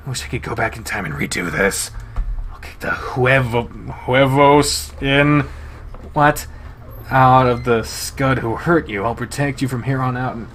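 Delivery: lightly voiced big wolf, now gentle and contrite. Leo confesses softly.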